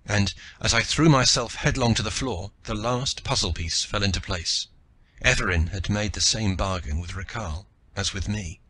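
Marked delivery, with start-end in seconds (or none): none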